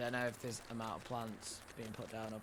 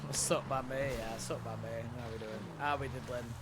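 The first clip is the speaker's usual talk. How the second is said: dopey, lightly bellowed greeting; a hint of a dumb brute. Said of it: "hearing the inner brute voice".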